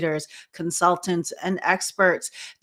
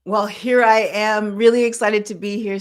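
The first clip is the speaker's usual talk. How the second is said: excited; 3 semitones higher, 6 dB louder than usual. Real, not acted. Guest opens her introduction.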